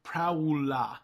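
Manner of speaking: Prowla said with an extra "ah" tacked on after Prowl; imitating a mispronunciation. A fan imitating how the voice actor says Prowl's name, as Prowla. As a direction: mimic the actor saying Prowla, not Prowl. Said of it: "I hear him saying".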